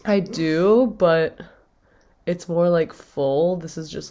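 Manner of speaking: sick, croaky vocal fry from a cold. Real, not acted. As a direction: talk through a rough, fried voice. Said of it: "vocal fry".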